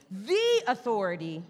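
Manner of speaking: "The" stretched like "thee-ee" before authority; preacher's elongated "The authority"; drawn-out "The". Shown as a demonstration. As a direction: lean long on "The". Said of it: "how y'all like to add a couple of E's".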